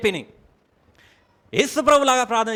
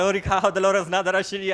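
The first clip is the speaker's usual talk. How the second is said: speaking in tongues; 3 semitones lower than usual. Shown as a demonstration. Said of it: "ఇప్పుడుగా అన్య భాషలు".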